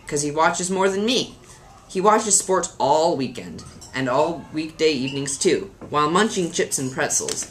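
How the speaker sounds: put-on lilting children's poem recital; mildly theatrical verse reading. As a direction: read a funny poem with lively emphasis. Reads a poem aloud.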